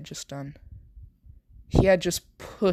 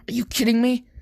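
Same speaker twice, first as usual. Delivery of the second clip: higher-pitched incredulous question; a touch of exasperated disbelief, voice raised in pitch; mild disbelief; 7 semitones higher, faster than usual. A narrator's reading. Soldier reacting to being hit in the chest, incredulous. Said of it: "as he would say".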